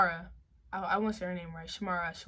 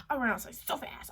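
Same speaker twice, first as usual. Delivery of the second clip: whisper; 6 dB quieter than usual. Real, not acted. Repeat said breathy, unvoiced.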